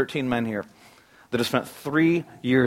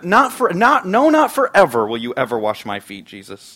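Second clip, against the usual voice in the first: tripping over the words to refuse; emphatic stammering refusal; 3 semitones higher, 7 dB louder than usual. Retold or imitated. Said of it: "He's so emphatic".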